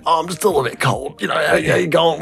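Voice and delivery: nervous high voice. Retold or imitated. To the nurse asking if he's okay, squeaky casual deflection. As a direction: brush it off in a squeaky voice. Acting his own reply to nurse.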